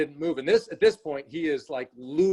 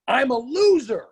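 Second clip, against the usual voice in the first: put-on much higher, louder child's voice, hurt; upset little boy; 10 semitones higher, 5 dB louder than usual. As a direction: voice a crying kid declaring defeat. Crying boy voiced by father.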